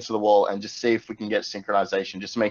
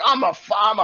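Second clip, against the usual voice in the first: high, indignant farmer retort; pig farmer customer; 10 semitones higher, 4 dB louder than usual. Acted. Farmer answering the angry tech worker, high and indignant. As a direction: answer back as a put-out farmer, pitched way up. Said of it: "who was a pig farmer".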